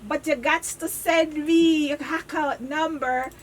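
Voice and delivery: slow, laughing scam pitch; scammer voice. Retold or imitated. Scammer asking for the account number, slow and giggly. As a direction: drag out the fake offer slowly. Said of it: "I say".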